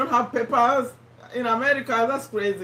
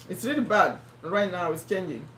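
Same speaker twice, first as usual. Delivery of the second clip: failing voice; 5 semitones lower, 3 dB quieter than usual. Real, not acted. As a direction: voice giving out, low and faltering. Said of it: "I don't know if I'll be able to finish with this voice".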